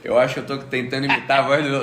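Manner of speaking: real hoarseness, joking about it; a bit hoarse today, amused. Real, not acted. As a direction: talk lightly through a slightly husky voice. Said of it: "uma voz hoje um pouco mais rouca".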